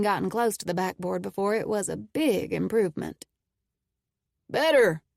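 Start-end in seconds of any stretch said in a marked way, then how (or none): 4.5-5.0 smiling voice. A narrator's reading. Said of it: "a smile in his voice".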